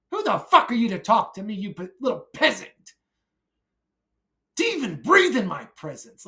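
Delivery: contemptuous angry snarl at a little peasant; angry rant. Acted. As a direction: scorn them as you shout. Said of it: "a angry rant".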